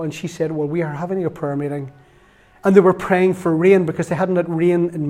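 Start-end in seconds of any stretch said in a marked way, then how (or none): 0.5-1.9 softer, measured imitation of careful speech; slow, careful. Retelling the local lady's answer to him, slow and careful. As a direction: separate "we are" and take it steadily. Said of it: "You know, really slow".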